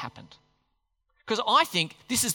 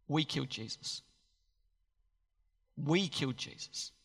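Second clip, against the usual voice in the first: stunned guilt; 4 semitones lower, 8 dB quieter than usual. Acted. People grasp their guilt.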